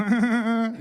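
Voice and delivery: high, loud put-on giggle; hammed-up high laughter; mock bragging laugh. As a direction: imitate a gloating wife's laugh. Imagined wife laughing as she brags.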